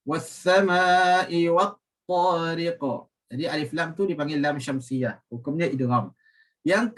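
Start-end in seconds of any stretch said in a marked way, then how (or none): 0.1-2.8 Was-sama'i wat-tariq slow, qaf bounced; slow, careful qalqalah at end; tajwid recitation. Shown as a demonstration. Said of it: "jangan lupa". (bacaan perlahan dengan qalqalah pada qaf)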